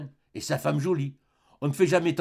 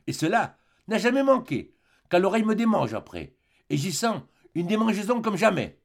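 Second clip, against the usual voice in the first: higher-pitched wifely lament; lightly acted woman's grievance; complaining wife; 5 semitones higher than usual. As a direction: voice a wife's fretful complaint. Wife coyly complains of itching ear.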